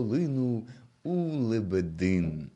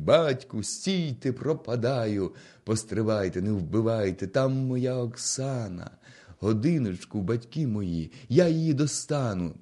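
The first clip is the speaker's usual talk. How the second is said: desperate shout. Acted. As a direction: call out desperately to stop them. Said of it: "а Галайда кричить".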